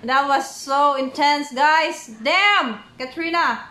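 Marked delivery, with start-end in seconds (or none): none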